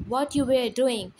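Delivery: loud demanding question; angry yell. Acted. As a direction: yell it at your son. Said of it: "Dad yelled".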